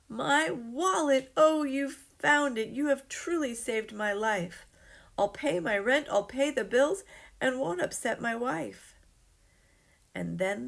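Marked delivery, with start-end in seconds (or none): 0.1-8.9 high, loud cry of joyful relief; overjoyed. Acted. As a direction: shout your thanks, you're saved. Stunned man thanks Walter.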